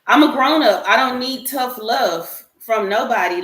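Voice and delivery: rejecting the idea of tough love, emphatic and loud; firm, emphatic. Real, not acted. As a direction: put your foot down.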